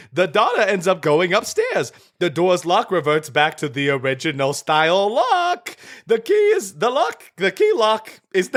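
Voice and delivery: lightly high clown voice; a hint of a goofy clown; silly clown. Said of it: "call in the clown".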